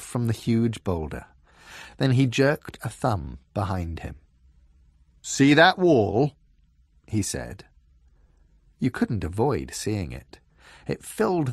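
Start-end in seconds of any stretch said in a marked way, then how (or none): 5.2-6.3 slow, loud and suspicious giant; a looming giant sizing him up; frost giant voice. A narrator's reading.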